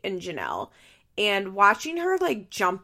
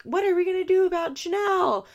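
pitched-up worried executive voice; high mock executive; 11 semitones higher, 4 dB louder than usual. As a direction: play a panicked TV boss. Imagined MTV executive meeting.

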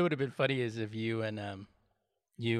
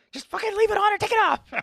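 high, loud burst of frustration; exasperated shout; 7 dB louder than usual. Acted. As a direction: yell it out, utterly fed up. Acting out exasperation at his fidgeting.

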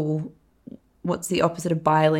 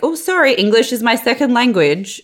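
Camille Rowe; 5 semitones higher, 4 dB louder than usual. Retold or imitated. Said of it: "she was putting on a fake accent".

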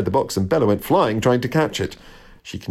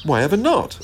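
higher, puzzled question; surprised; 8 semitones higher than usual. A narrator's reading. Jack questioning the robin about the feeder, surprised. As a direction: ask it with real puzzlement. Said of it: "asked Jack in surprise".

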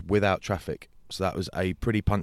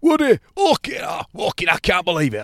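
shouted high disbelief; imitated shock; 10 semitones higher, 6 dB louder than usual. Bentos finally recognising Woody, shouting in disbelief. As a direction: yell it in stunned recognition. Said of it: "And he was like".

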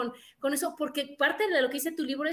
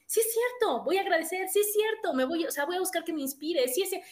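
higher, eager self-affirmation; excited self-talk; 5 semitones higher than usual. Retold or imitated. The host voices a reader convincing herself, with mild excitement. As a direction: pump yourself up, talking fast to yourself. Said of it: "cada dices".

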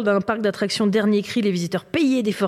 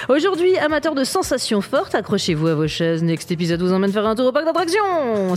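fairground barker voice. Shown as a demonstration. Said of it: "C'est ma meilleure voix de fête foraine".

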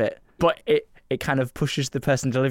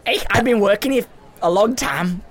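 protesting Scouse waiter, slightly raised; put-on Liverpool accent; 5 semitones higher than usual. Waiter pleading for a tip, put-on Liverpool accent. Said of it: "sort out his accent".

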